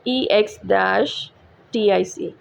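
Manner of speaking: spelling out letters. Shown as a demonstration. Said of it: "that is word exotic".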